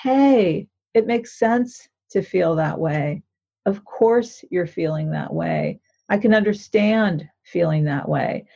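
calm yourself like a caring mother would; slow reassuring self-talk; soothing inner voice. Shown as a demonstration. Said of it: "another voice in our head that says".

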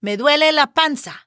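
a hint of a child's complaint; little kid imitation. Teacher quoting little kids with tummy aches, light child imitation. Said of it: "especially when they're little, they say".

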